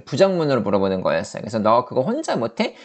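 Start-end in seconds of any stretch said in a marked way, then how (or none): none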